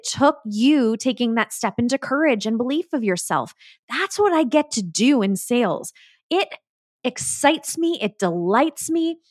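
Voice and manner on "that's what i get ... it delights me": bright lifted energy, pitch rising on excites; buzzing with genuine delight about selling; energized. Real, not acted. Coach telling listeners she loves sales, real excitement. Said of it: "you can hear the energy in my voice".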